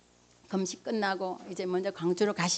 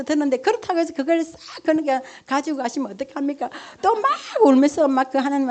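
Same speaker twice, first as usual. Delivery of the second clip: preaching at full force; 5 semitones higher, 8 dB louder than usual. Acted. Testimony rising to preaching force.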